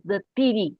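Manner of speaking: TIRI with a hard t for the th; mispronounced THEORY. Retold or imitated. Quoting the algebra teacher's accent, mispronounced "tiri". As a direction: say "tiri", theory without its th sound. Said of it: "he didn't have that sound in his language".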